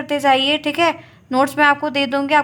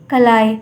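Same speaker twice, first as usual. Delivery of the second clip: कलाई said alone, firm and louder with a low falling end; emphatic repeat; 4 semitones lower, 4 dB louder, slower than usual. Shown as a demonstration. Teacher stamping the Sanskrit word for pea, firm and emphatic. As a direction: land कलाई as the final answer. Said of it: "क्या कहते हैं?".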